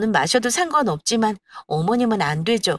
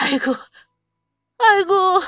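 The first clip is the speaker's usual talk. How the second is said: 높은 목소리로 앓는 소리 하는 시어머니; 주저앉아 과장되게 끙끙대듯; 10 semitones higher than usual. Acted. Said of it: "힘들다며 바닥에 주저앉았습니다". (지쳐 앓는 소리)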